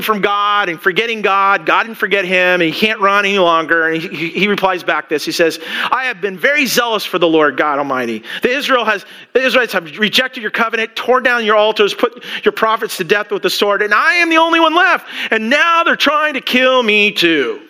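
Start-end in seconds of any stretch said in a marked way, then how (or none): 5.9-17.6 whining complaint. Retold or imitated. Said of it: "you're quite the whiner here".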